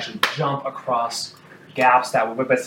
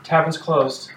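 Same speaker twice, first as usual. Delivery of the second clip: curt announcement; 4 semitones higher, slower than usual. Acted. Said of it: "She says".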